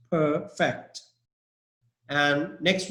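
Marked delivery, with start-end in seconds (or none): 0.1-1.0 "perfect" as a verb, weight on FECT; stress on second syllable. Shown as a demonstration. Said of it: "The stress is on fact".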